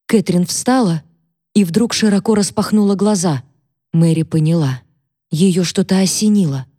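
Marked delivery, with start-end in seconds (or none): none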